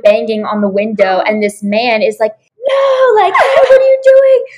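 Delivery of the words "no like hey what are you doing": high-pitched yell of an alarmed man; imitated shocked man, very high; mock outraged shout. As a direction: shout it high, as if catching someone in the act. Man banging on window, caught her.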